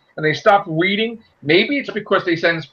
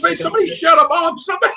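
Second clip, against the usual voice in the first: high, fast whining plea; mock whiny cry; 12 semitones higher, much faster than usual. Mocking Spider-Man whining, high and fast. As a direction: whine it like a crying teen. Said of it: "He's crying like".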